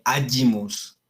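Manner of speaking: agimus said "A-yi-mus"; Latin pronunciation. Shown as a demonstration. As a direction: say agimus with g as a y sound. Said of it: "se pronuncia como una Y".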